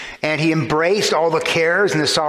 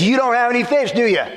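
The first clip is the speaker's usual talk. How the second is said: higher, knowing question expecting no; leading question; 8 semitones higher, faster than usual. Shown as a demonstration. Preacher giving the best translation of Jesus' call. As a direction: tease out the obvious answer. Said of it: "the best translation is".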